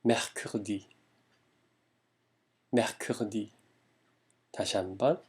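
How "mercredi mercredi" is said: mercredi with both Rs from the throat; French R demo. Shown as a demonstration. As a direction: say mercredi, first R near a "g", second a windy "h". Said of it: "첫 번째 에흐는 약간 기역 발음에 가깝게".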